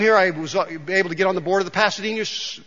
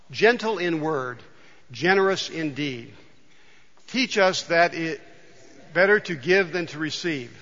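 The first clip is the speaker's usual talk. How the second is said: read prayer; 2 semitones lower than usual. Acted. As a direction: pray it unhurried and reverent, leading the room. Leads the congregation in prayer.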